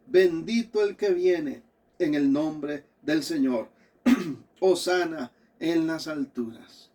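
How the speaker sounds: solemn public reading of scripture. Acted. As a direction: proclaim the passage phrase by phrase. Reads scripture aloud to congregation.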